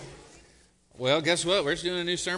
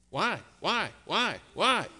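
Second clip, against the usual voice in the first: mildly imitated nagging toddler; imitating a toddler; 2 semitones higher, slower than usual. Pastor mimics a toddler pestering with questions, lightly. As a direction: repeat it like a curious little kid. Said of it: "hang out with a toddler".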